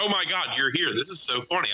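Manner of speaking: excited fan. Retold or imitated. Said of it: "He's like".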